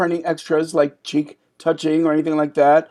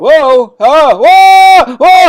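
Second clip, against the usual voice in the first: startled yelps; 11 semitones higher, 11 dB louder, much slower than usual. Acted. Startled by someone walking in.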